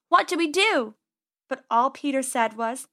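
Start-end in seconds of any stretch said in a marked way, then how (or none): 0.1-1.0 panicky. Acted. Trapped, panicking.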